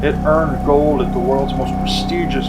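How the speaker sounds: dramatic commercial voiceover; ad read. Acted. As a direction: read it like a beer ad. Reads promo copy.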